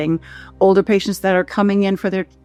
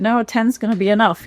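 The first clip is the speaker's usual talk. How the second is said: higher, laughing through the words; laughing quote; 4 semitones higher than usual. Retold or imitated. Quoting the friend who said ten was enough, laughing. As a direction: tease while chuckling.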